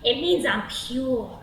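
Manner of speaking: lightly voiced slow, swaggering guy; slow, self-satisfied pickup delivery; creepy Devon. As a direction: introduce yourself like a slow, creepy flirt. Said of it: "And he goes".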